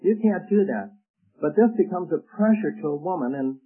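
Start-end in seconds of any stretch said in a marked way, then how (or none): 0.0-0.9 stubborn stand. Retold or imitated. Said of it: "he stands up and he says".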